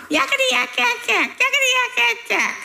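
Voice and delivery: mock a yapping little demon; chattering demon. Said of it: "crying, 'Yakety yak".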